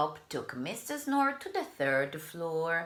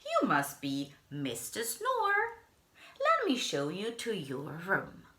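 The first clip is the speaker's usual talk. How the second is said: lightly higher friendly bellhop; 3 semitones higher than usual. Acted. Bellhop guiding the guest, lightly raised. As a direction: show him up politely.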